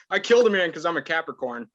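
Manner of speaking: mock astrology excuse. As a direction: play a smug astrology believer. Jokey astrology person quote.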